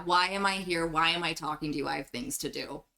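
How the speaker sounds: low, trailing off, impatient boredom. Acted. Changeling resents talking to the visitors, bored and dismissive. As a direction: mumble it off as if fed up. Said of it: "looking like she's so bored of this".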